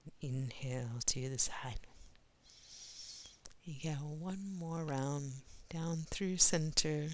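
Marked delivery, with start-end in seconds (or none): 0.0-5.3 breathy whispered cue; soft spa whisper. Real, not acted.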